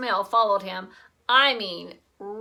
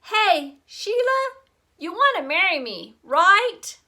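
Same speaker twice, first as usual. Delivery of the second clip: high, loud cheerful proposal; a little boy calling across the porch; eager kid calling out; 8 semitones higher, 8 dB louder than usual. A narrator's reading. Fudge proposing loudly.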